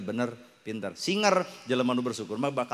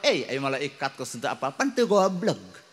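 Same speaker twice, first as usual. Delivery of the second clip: cheeky reply. Acted. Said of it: "Tinggal ngajawab".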